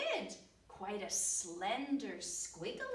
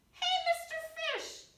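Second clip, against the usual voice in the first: much higher, louder blunt greeting; loud octopus call; 7 dB louder than usual. Acted. Octopus hailing the fish before telling it straight. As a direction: hail him bluntly from up high.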